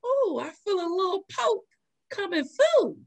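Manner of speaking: high, giggling retelling; tickled, half-laughing report; laughing through it. Retold or imitated. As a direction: laugh the words out. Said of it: "all of a sudden I said".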